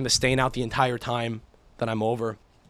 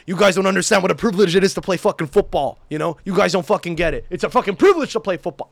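louder, slightly raised indignant rant; retold diatribe; 3 semitones higher, 4 dB louder than usual. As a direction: lecture the team as if it mattered hugely. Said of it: "I'm giving this whole fucking diatribe".

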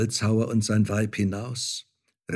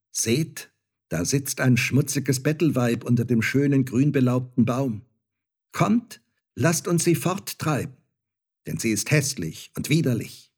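mocking child; 3 semitones higher than usual. Star child jeering to his companions, scornful. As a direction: sneer it out like a spoiled child.

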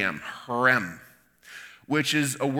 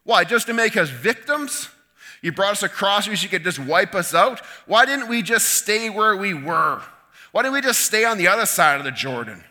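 raised, pleading cry to heaven; desperate outcry, higher and louder; anguished plea to God; 6 semitones higher, 4 dB louder than usual. Acted. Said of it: "Joshua cries out to God".

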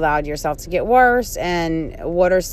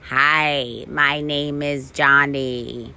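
slow, even robot voice; 4 semitones lower, slower than usual. Shown as a demonstration. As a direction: say it like a stiff robot. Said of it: "you can do a funny robot voice like".

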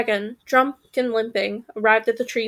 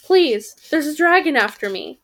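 louder, a bit higher plea; a louder urgent plea; 3 semitones higher, 3 dB louder than usual. Acted. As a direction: urge them desperately. Gretel begging.

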